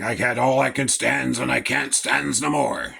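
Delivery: a lightly done Popeye, gruff sailor timbre; fed-up cartoon sailor at the end of his rope. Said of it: "the Popeye thing".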